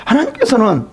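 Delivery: lecturing friend voice; Eliphaz lecturing. Acted. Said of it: "voicing Eliphaz to Job".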